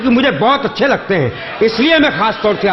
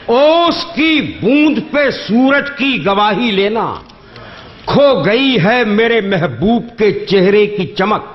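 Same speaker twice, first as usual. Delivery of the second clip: measured, lingering verse delivery; poetry recitation; slower than usual. Acted. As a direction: recite each line slowly for effect. Mushaira couplet recital.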